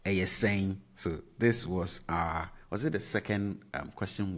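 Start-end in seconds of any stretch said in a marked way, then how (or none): 0.1-0.8 whisper. Shown as a demonstration. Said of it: "You remember this?".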